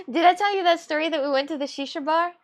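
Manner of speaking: asking through giggles; laughing as she repeats the question. Real, not acted. To her stream friend, laughing while asking.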